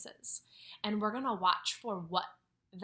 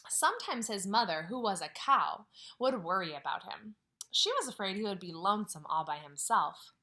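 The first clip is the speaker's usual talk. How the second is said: put-on reading a picture book to children; story reading; 2 semitones lower than usual. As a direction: read it out gently to the class. Teacher reads story aloud.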